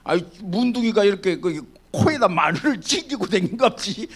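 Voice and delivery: lightly put-on Jeolla dialect; a hint of Jeolla country speech. Pastor to congregation, lightly voicing Jeolla dialect. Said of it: "전라도 말이야".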